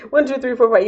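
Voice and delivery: bright high count; high playful counting. Acted. Counting again higher.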